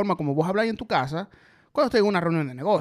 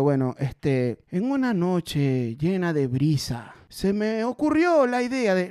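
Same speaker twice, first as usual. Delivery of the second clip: mock dramatic storyteller; slower than usual. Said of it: "yo diciendo".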